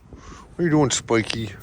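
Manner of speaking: surprised, happy hello to Spiky; playful greeting to dog. Real, not acted.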